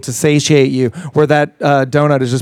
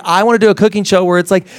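ordinary talk, nothing marked

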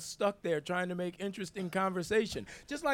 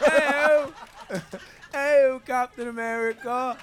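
loud, higher Cockney Oliver Twist voice; hammed-up Cockney cry; British accent; 8 semitones higher, 10 dB louder, slower than usual. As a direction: shout it like a Dickens street kid. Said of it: "I learned my British accent watching Oliver Twist".

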